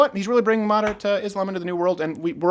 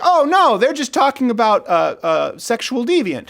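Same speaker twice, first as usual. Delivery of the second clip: mock shock; 6 semitones higher than usual. Mock naive Bible reader.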